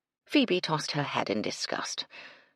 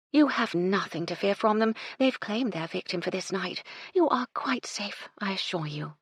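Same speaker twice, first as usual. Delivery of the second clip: higher, sinking to a breathy hush; condescending; 5 semitones higher than usual. Acted. Madeline reassuring Phoebe, condescending hush. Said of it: "a shade condescending".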